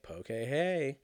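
slow, playful "poh-kay-ay"; pronounced poh-kay. Shown as a demonstration. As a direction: POKE said slowly as "poh-kay-hey". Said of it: "I think I've been calling it poke".

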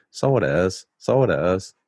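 practising an Irish accent; lightly put-on Irish lilt. Shown as a demonstration. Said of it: "if I'm gonna do an Irish accent under my breath".

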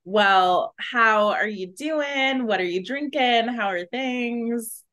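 slow, mock British accent; a hint of a hammed-up British accent; goofy British accent. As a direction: put on a silly British accent to ask after a friend. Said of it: "am just in a goofy mood".

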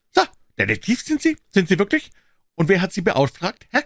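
put-on high, loud, sharp old voice; indignant old man. A narrator's reading. Old man confronting Holmes over the papers, high and indignant.

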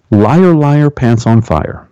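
lightly sing-song taunt; playground taunt. Shown as a demonstration. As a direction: throw it back at a liar. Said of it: "say it like that".

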